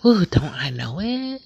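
high, loud, drawn-out "Ooh, don't I know it?"; emphatic knowing exclamation. Real, not acted. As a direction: sing out the ooh like you've lived it.

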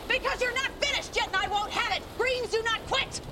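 high-pitched exasperated yelling at the pupil; yelling at him. Acted. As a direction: lose your cool and yell up high. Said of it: "you're still yelling at me".

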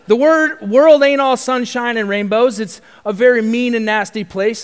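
loud, high, forceful declaiming; rousing movie speech. Acted. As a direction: belt it out like a fired-up pep talk.

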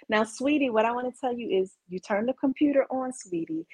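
condescending. Acted. Teaching someone a simple computer step, condescending. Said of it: "'Cause it's condescending".

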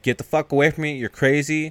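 high-pitched retold outburst; mock alarmed anger. Woman pointing gun at Pete, mock angry alarm.

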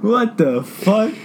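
slow, drawn-out disbelief; stunned. Real, not acted. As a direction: stretch it out, stunned. Stunned reaction.

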